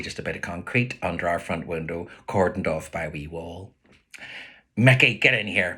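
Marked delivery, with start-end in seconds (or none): 4.8-5.8 mild shout. Retold or imitated. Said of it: "Ma shouts from the living room".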